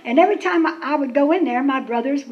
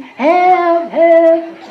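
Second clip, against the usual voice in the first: cries of help from the outhouse hole, a bit louder; calling for help; 4 semitones higher, 7 dB louder than usual. Retold or imitated. Stuck girl calls out from the outhouse, loudish. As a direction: call out help, trapped and scared.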